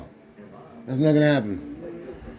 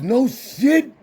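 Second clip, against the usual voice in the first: retold surprise; 5 semitones higher than usual. Retelling dad's surprised response.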